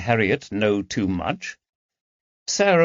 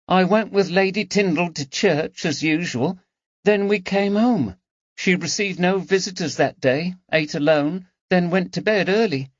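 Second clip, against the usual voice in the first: put-on higher, plain-spoken servant girl; young maid Harriet; 9 semitones higher than usual. A narrator's reading. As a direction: recall the day dutifully. Harriet recounting Sunday.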